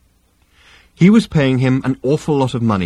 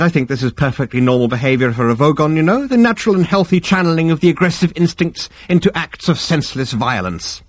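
higher-pitched, soothing professional patter; smooth psychiatrist; 6 semitones higher than usual. Acted. Psychiatrist reassuring the Vogon captain about violence, unruffled. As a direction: play the unruffled therapist explaining it away.

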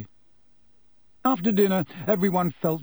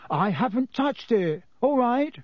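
roaring; 9 semitones higher than usual. A narrator's reading. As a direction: bellow back in anger. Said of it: "Ron roared back".

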